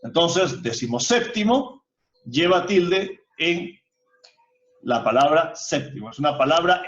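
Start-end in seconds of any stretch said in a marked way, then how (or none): 0.6-1.8 decimoséptimo with one main stress on SÉP; single main stress. Shown as a demonstration. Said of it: "una sílaba lleva la mayor fuerza de voz".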